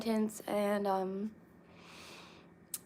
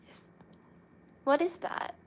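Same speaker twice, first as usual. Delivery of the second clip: surprised; 9 semitones higher than usual. Real, not acted. Puzzled about unknown language.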